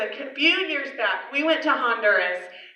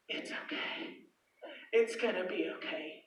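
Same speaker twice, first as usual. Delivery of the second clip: soft comforting; 6 semitones lower, 17 dB quieter than usual. Retold or imitated. Comforting a crying stranger.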